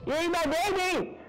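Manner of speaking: high, wailing mock despair; shrill-pitched pretend grief, slowing at the end; hammed-up anguish. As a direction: wail over the eaten baby, over the top. Creature's baby gets eaten.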